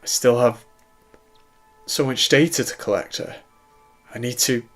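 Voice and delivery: breathless cry. A narrator's reading. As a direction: stammer it out, short of breath. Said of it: "Stanley breathlessly cried".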